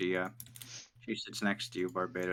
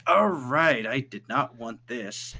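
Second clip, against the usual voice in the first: reluctant grumble; 4 semitones higher, 5 dB louder, much slower than usual. Acted. GM voices reluctant Marco.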